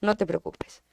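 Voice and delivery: en voz baja, dándole confianza a su hija; tranquilízala bajito, como cómplice; madre tranquilizando. Retold or imitated. (madre tranquilizadora, en voz baja)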